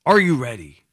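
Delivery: lightly voiced doom-laden promo warning; mock sales pitch. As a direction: pretend to sell a dire market warning. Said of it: "I have the voice for it".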